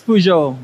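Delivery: "Peugeot" as poo-zho, silent t, said loudly; correct pronunciation. Shown as a demonstration. Expert answering how it is pronounced, correct pronunciation. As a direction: model "Peugeot" loudly in two syllables. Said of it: "Paano i-pronounce?".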